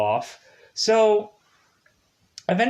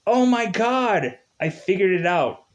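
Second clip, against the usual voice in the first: mock eureka; 7 semitones higher, 4 dB louder than usual. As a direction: act out the penny dropping. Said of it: "Then I'm like".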